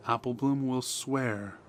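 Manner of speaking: plain reading voice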